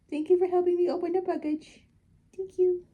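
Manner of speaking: sweet, high sing-song; cooing pet talk. Real, not acted. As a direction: thank your pet like a tiny helper. Thanking pet in baby talk.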